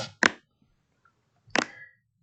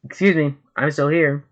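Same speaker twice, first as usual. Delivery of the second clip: offended clown; 4 semitones higher, 5 dB louder than usual. Acted. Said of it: "As Buggy's like".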